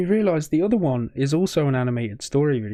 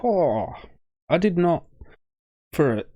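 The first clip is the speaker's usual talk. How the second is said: emotional; 4 semitones higher than usual. Real, not acted. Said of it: "this is getting me emotional".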